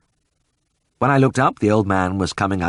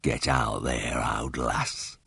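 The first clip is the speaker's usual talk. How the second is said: low, soft and slow; gentle to the cow; 8 semitones lower, 9 dB quieter, much slower than usual. A narrator's reading. Old Ted sending his old cow out, soft and slow. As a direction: coax the old cow kindly. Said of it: "Ted said".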